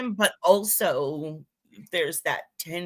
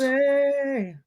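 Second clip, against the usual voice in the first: high silly greeting; 10 semitones higher than usual. Real, not acted. Calling greeting, funny voice.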